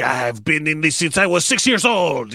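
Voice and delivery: light imitation of a Mexican Spanish accent; a hint of Mexican-accented English, mimicking an actor; Diego Luna impression. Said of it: "such a great impression of him".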